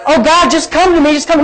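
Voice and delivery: a touch of mock desperation; mock pleading. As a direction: beg helplessly, imitating a passive believer. Mocks passive believer's plea to God.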